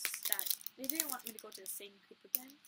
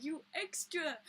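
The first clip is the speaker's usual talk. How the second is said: loud laughing squeal, higher and louder; laughing fangirl shriek; 5 semitones higher, 9 dB louder, slower than usual. Retold or imitated. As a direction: squeal it out between laughs at the dancer. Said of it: "And then I was like".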